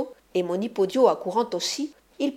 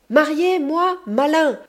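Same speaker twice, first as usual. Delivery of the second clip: high, loud mocking outburst; furious woman scoffing at a proposal; scornful retort; 8 semitones higher, 7 dB louder, slower than usual. A narrator's reading. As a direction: spit the word back at him. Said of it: "répondit la carriarta".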